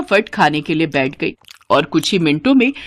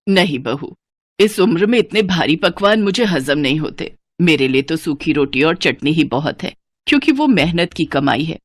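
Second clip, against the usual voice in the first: put-on lower, reproachful older woman; scolding mother-in-law; 4 semitones lower than usual. Mother-in-law scolding Sunita over the snacks, reproachful. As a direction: chide her for wasting money.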